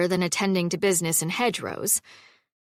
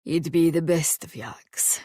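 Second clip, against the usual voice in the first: smiling; 2 semitones lower than usual. Acted. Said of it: "She could hear the smile in his voice".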